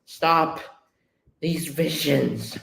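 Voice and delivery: anguished plea, slowing down; understated agony, dragged out; pained. Acted. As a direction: act mildly tormented, drawing out the last words. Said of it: "he's so pained in his mind".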